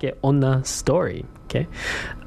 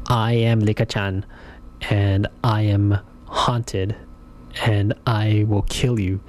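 slow, flat, lower doll voice; robotic monotone voice; 3 semitones lower, slower than usual. Retold or imitated. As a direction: speak like a haunted robot doll, slowly. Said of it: "in such a monotone, robotic voice".

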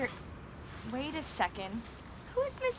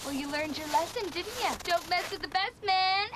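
gloating. Acted. Gloating after the prank.

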